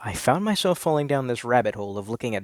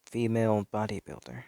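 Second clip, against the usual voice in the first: echoing thought; 5 dB quieter than usual. Acted. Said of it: "the words reverberated inside of my head".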